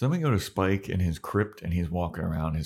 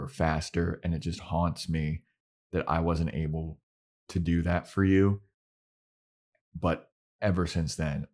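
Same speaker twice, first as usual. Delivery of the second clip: sincere apology. Retold or imitated. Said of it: "And then he's like".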